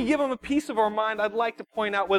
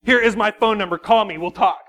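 heated challenge; 6 dB louder than usual. Retold or imitated. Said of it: "this is how hot I was".

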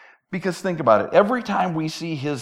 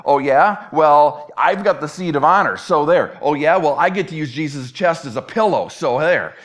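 mock squabbling, one-upping each other; bickering; 4 dB louder than usual. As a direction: trade petty boasts like squabbling rivals. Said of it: "as they start bickering again".

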